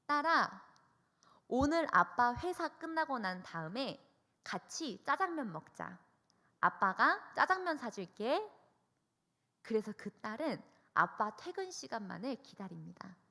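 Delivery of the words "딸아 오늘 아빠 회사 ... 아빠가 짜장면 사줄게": lightly voiced cheerful father, higher; a dad promising his daughter a treat. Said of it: "아빠가 딸에게 전화를 합니다". (딸에게 약속하는 아빠, 살짝 밝고 높게)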